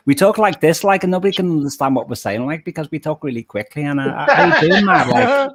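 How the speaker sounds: Liverpool accent. Shown as a demonstration. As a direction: rattle it off fast in Scouse. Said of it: "a Liverpool accent".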